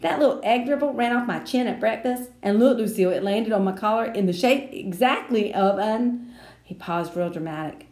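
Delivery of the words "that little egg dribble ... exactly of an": put-on boy voice. A narrator's reading. Sheldon showing off stain.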